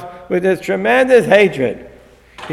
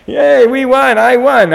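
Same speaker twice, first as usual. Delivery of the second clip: mock cheer; 5 semitones higher than usual. Rabbi mocking fake joy of the winning team, high sarcastic cheer. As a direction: cheer in hammed-up fake triumph. Mock celebrating Biden win.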